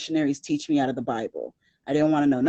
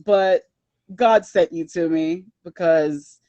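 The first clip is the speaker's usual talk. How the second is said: louder, higher, teasing refusal; mock sassy brush-off to missionaries; 8 semitones higher, 6 dB louder than usual. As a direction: wave them off with a laugh. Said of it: "I was like".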